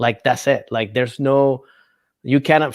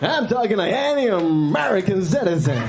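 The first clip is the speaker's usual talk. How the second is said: put-on American accent; 7 semitones higher than usual. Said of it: "I'm gonna use my American accent".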